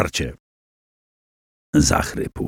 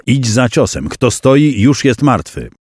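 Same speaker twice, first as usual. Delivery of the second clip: mentor's maxim; 3 semitones higher than usual. Acted. Mentor Drogomir teaching Przemysł, firm maxim. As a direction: state the master's rule plainly and firmly. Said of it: "głos Drogomira".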